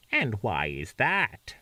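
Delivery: slow, cold witchy princess; lightly voiced stern witch; Wicked Witch voice. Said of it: "make her sound like the Wicked Witch of the West".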